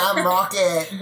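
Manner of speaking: hint of a bad Australian accent; Rocket. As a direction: loosely imitate an Australian man. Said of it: "did a terrible impression of you".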